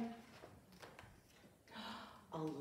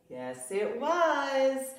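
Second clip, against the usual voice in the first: slow, high, louder joyful answer; happy reveal; 6 semitones higher, 4 dB louder, much slower than usual. Acted. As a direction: savour the good news. Reader reveals the mother.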